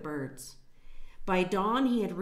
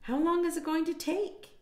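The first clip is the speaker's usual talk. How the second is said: impatient mother duck; 10 semitones higher than usual. A narrator's reading.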